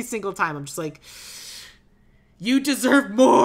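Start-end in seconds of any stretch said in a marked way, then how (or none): 2.4-3.4 loud, slow, raised-pitch exclamation; impassioned cry. Acted. Fan addressing an underused actor, impassioned cry. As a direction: call it out with drawn-out emphasis. Acted outburst at an admired actor.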